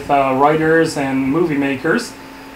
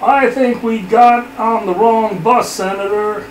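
higher, slow overacted worry; hammy dramatic reading; 5 semitones higher than usual. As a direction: play it like a soap drama. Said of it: "a dramatic reading".

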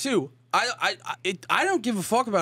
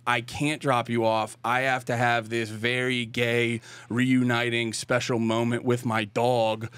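lower, slow mock of his friend; imitating cohost; 8 semitones lower, slower than usual. The speaker mimicking his cohost refusing a ride, lower and slow. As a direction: drag it out as his buddy, teasing. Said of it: "that's how I said it".

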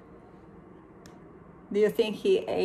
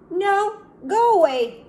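higher, louder rude refusal; rude snap; 10 semitones higher, 7 dB louder than usual. Acted. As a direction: push them away, loud and rude. Rude animal refuses donut.

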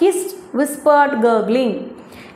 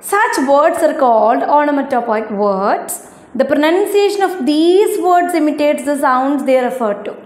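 slow, careful textbook reading; reading aloud; much slower than usual. Acted. Teacher reading the excerpt to her ninth-graders, slow and careful. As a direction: spell each English word out slowly for the class.

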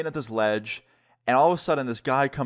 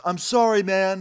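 high, loud imitated yell; yelled apology; 8 semitones higher, 4 dB louder than usual. Chased man apologizing to the skater, imitated yell. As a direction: shout it out high, mimicking a beaten man. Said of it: "the guy yells at me".

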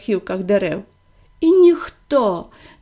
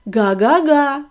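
car's honk; 3 dB louder, slower than usual. Acted. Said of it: "сказав автомобіль".

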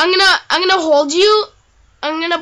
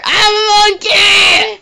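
re-enacted yell; 2 semitones higher, 3 dB louder, slower than usual. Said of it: "You just hear".

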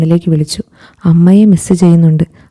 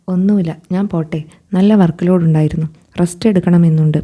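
much softer, withdrawn, barely voicing it; hushed and hurt; 4 dB quieter than usual. Hurt girl quietly brushing off the man's question after the coffee shop, hushed and withdrawn. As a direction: pull away, say it quietly to end the talk.

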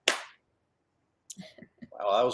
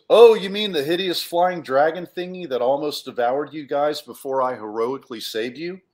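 a lightly voiced show-off, higher and louder; bragging hero; 4 semitones higher, 5 dB louder than usual. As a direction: boast it like Mister Braggy Pants. Bragging character Cluck answers.

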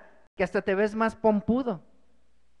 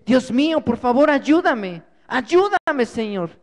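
begging God for rescue, voice rising on the cries; desperate pleading prayer; 2 semitones higher than usual. Acted. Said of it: "busca y clama a Dios". (clamor desesperado a Dios)

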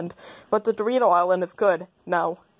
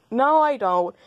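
sudden loud no; 6 semitones higher, 3 dB louder, slower than usual. Acted. Answering an absurd question.

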